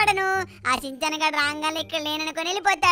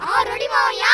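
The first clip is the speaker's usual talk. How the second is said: put-on kid voice; 7 semitones higher, 5 dB louder than usual. Kid character answers host.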